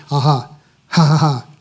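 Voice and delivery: short, deliberate ha-ha with little emphasis; unemphatic laugh. Retold or imitated. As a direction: imitate a token laugh at the devil. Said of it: "about that much emphasis in it".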